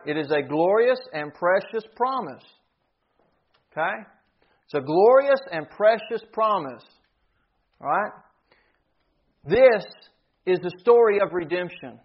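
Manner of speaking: ringing preacher's declaration, key words punched; emphatic preaching. Real, not acted. Preacher declares the promise to believers, emphatic preaching. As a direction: proclaim it with swelling emphasis.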